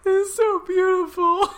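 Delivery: high, gushing squeal of delight. Real, not acted. A fan gushing over the couple's old house. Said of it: "I, I was like".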